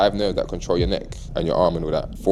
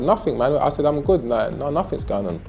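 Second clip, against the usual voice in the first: playing it cool; 7 semitones higher than usual. Brushing off the police.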